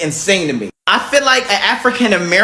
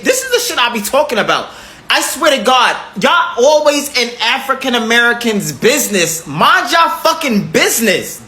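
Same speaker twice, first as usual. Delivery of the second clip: raised, heated and fed up; angry rant; 4 semitones higher than usual. Real, not acted. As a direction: let it build into an outraged outburst. Heated rant about the poll.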